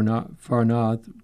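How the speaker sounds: New England accent, north said as nath with the r dropped. Real, not acted. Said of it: "My, my New England accent is coming out".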